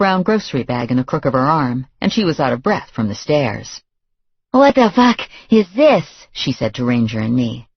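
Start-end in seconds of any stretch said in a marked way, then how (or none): 4.5-6.1 angry. Acted. Woman bursts in, finds intruders.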